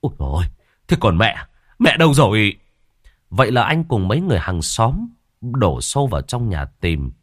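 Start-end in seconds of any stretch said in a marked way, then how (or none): 0.0-2.6 sudden alarmed call, rising to a louder cry; saying it loudly. Acted. Eldest son suddenly remembering his missing mother, rising alarmed call. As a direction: blurt it out, getting louder as the fear hits. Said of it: "liền nói to".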